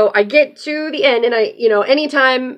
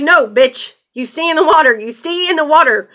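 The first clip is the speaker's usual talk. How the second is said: louder, higher firm telling-off; scolding the duck; 5 semitones higher, 3 dB louder than usual. Real, not acted. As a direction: shoo her back into the water. Scolding duck leaving water.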